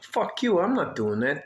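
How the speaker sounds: defiant retort. Retold or imitated. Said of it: "I'm like".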